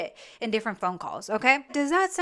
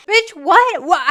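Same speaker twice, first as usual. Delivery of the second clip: loud, higher disbelieving exclamation; incredulous outburst; 4 semitones higher, 8 dB louder, slower than usual. Real, not acted. Host reacting to the mom's swooning, loud incredulity. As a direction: blurt it out in sheer disbelief.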